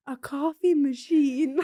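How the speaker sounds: coffee machine drawn out slowly; slow, exaggerated quote; imitated slow delivery. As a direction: stretch out each word, mimicking a teammate. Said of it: "like that".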